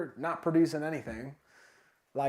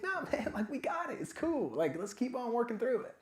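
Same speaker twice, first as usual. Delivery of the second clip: higher, soft voice of encouraging teammates; upbeat reassurance; 6 semitones higher, 4 dB quieter than usual. Retold or imitated. Teammates answering someone who wants to quit, upbeat reassurance. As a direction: lift it high and easy to reassure.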